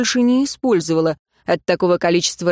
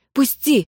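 angry demand; 7 semitones higher than usual. Acted. Гораздо тише и спокойнее.

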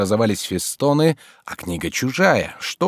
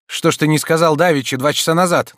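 hurried; 7 semitones higher, 5 dB louder than usual. A narrator's reading. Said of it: "торопливо спросил Обломов".

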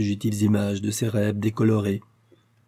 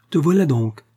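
higher, light silvery exclamation; 5 semitones higher, 4 dB louder than usual. A narrator's reading. Pauline waking sleeping Raphaël at midnight, in a silvery voice. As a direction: call it out in a silvery voice. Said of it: "prononcés d'une voix argentine".

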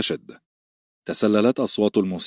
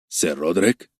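surprised; 3 semitones lower than usual. Acted. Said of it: "قائلا بدهشة".

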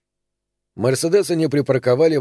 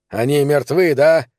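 louder, bitter angry asking; spiteful question; 2 semitones higher, 4 dB louder than usual. Acted. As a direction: spit the question out. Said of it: "злобно спросил Пономарь".

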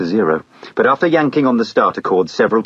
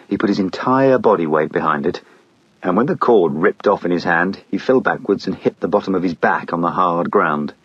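plain reading voice

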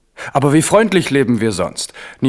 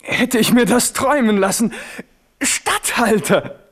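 mock delight; 10 semitones higher than usual. Navarra mocks the offered title.

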